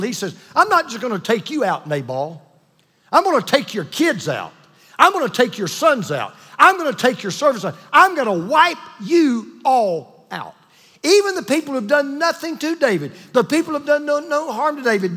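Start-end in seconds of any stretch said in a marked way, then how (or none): 0.5-10.5 mock furious threat. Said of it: "He is so thrown off the handle".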